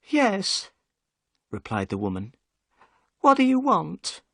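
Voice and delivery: high, guarded housewife at the door; Mrs Smith, wary wife. Acted. Narrator voices Mrs Smith.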